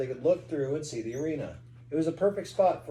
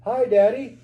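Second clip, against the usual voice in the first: put-on excited boy voice; 7 semitones higher, 9 dB louder than usual. Boy greets father.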